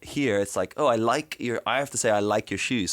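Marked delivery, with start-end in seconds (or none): 0.8-1.6 posh-leaning "like" with full diphthong; quite posh. Shown as a demonstration. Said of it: "So I end up sounding quite posh". 2.1-2.9 posh-leaning accent, full diphthong in "like"; quite posh. Shown as a demonstration. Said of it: "So I end up sounding quite posh".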